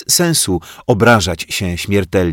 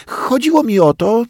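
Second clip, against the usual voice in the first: flustered. A narrator's reading. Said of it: "zmieszał się pajacyk".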